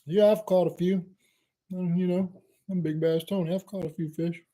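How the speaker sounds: a lightly played smug fisherman, drawing out the last line; cocky brag. Kayaker bragging to a stranger on the water, mock cocky. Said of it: "you're feeling kinda cocky".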